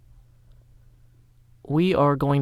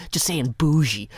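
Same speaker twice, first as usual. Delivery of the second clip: just saying bougie, whispered with no voice; mock whisper. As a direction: breathe it out like a secret.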